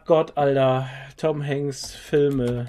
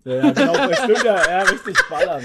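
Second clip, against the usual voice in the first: laughing; 9 semitones higher, 6 dB louder than usual. Real, not acted. Erinnert sich lachend an Gruß.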